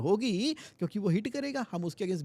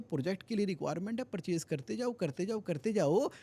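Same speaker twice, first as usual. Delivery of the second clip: fast pushy demand; 2 semitones higher than usual. Retold or imitated. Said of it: "purchase वाले तो सीधा कह रहे हैं".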